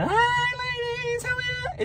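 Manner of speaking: falsetto, octave up. Shown as a demonstration. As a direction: stretch it out in a tiny, sky-high falsetto. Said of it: "one octave up".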